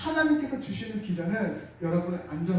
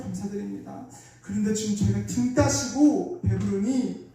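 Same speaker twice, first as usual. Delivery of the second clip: raised, pleading prayer voice, pitch lifted; fervent prayer; 2 semitones higher than usual. Retold or imitated. Preacher recalls praying to God for the nation, earnest pleading prayer.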